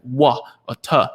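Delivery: "wa" and "ta" as two short, separate syllables. Shown as a demonstration. Parent simplifying water for a child, separate "wa", "ta". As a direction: say "wa", then "ta", each on its own. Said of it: "then make it easier".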